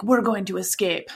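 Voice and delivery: put-on light Russian accent; lightly put-on Russian accent. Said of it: "should I not do my Russian accent".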